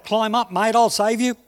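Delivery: megaphone yell. Acted. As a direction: call down from the helicopter through a loudhailer. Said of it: "from a megaphone, a voice yells out".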